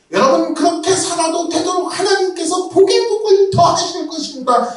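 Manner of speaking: hammed-up prosperity preacher; mock false preacher. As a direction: parody a fake pastor promising riches. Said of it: "윤 목사님 절대로 말 안 할 거예요".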